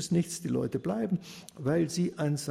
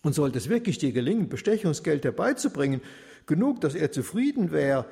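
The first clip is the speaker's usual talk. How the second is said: unashamed taunting; 2 semitones higher, 3 dB louder than usual. Acted. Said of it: "so sprach er ungeniert".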